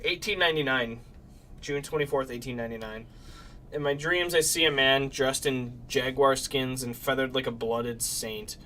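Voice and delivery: dramatic journal reading aloud; diary reading. Acted. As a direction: read the diary like a haunted narrator. Reads game diary aloud.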